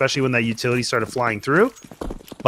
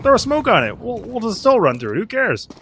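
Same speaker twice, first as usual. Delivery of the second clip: mock reckless bravado; 5 semitones higher than usual. Players voiced daring the fire.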